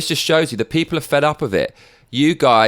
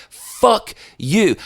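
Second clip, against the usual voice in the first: pitched-up angry swear; raised, furious curse; angry outburst; 9 semitones higher, 3 dB louder than usual. Real, not acted. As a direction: spit it straight at him. Ranting at the governor.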